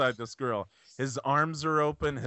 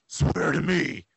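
booming arrogant alien overlord; 4 dB louder, slower than usual. Retold or imitated. Quoting Zod.

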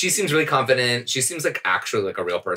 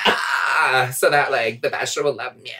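creaky fry, hammed-up; vocal fry; 4 semitones higher than usual. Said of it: "some of us have a natural vocal fry and you can't make fun of us".

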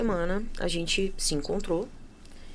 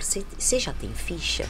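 whispered question. Retold or imitated. Young woman asks quietly.

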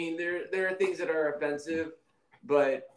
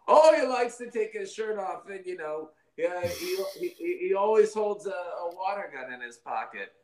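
higher, mock-adoring praise; fawning Russian TV host; 5 semitones higher than usual. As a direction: gush over the leader like state TV. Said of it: "make Vladimir Putin look like a good guy".

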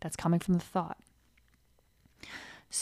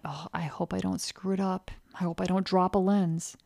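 insecure worry; 5 dB quieter than usual. Retold or imitated. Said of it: "come in with the thought".

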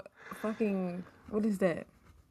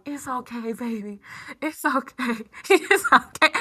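retold comforting; 2 semitones higher than usual. Everybody comforting the crying child.

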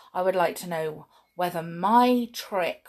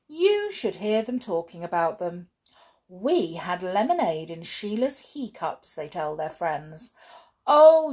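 put-on lively read-aloud for children; storybook reading. A narrator's reading. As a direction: tell it like a bedtime story.

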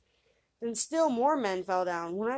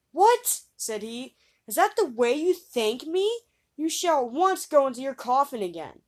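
loud, high outraged cry; sharp, loud, high indignation; indignant; 5 semitones higher, 7 dB louder than usual. A narrator's reading. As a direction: scold the ungrateful corpse. Youth indignant at ungrateful corpse.

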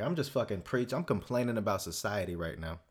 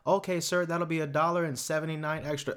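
higher, polite cashier voice; 4 semitones higher than usual. Pretend. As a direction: chirp it like a friendly cashier. Cashier voiced in imagined scene.

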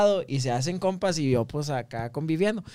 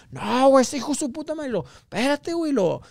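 mucho más agudo, alterado; protesta alterada; 9 semitones higher, 6 dB louder than usual. Retold or imitated. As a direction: insiste con coraje y desesperación. Compa sigue alterado. (compa drogado insiste en que le robaron el celular, alterado)

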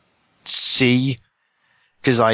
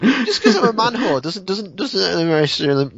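laughing; 7 semitones higher than usual. Real, not acted. Defends himself while laughing.

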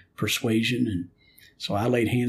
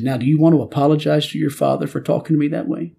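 louder and higher, firm fatherly rebuke; God scolding the young man for his outburst, louder and higher; 5 semitones higher, 8 dB louder than usual. Retold or imitated. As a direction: demand the apology like a stern father. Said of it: "And he said".

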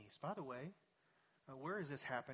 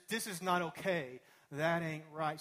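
indignant local saying; 7 dB louder than usual. Retold or imitated. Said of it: "the way we say it around here".

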